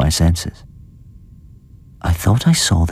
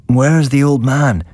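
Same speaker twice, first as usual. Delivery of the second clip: bleary murmur; 7 semitones higher, slower than usual. A narrator's reading. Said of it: "he murmured blearily".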